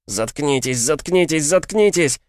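pained chant growing into a scream; headache, building to a scream. Acted. Head splitting, kneeling.

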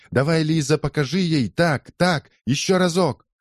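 high-pitched egging on; shouted cheering. A narrator's reading. Spectators urging Лиза on in the fight, high cheers. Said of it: "кричали они".

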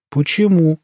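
high, affronted question; offended. A narrator's reading. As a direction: demand why with hurt pride. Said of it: "оскорбилась Хохлова".

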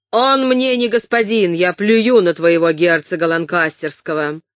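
angry peasant shouting down a lord; furious defiance. Acted. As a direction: throw the insult at him in fury. Enraged villein defies the duke.

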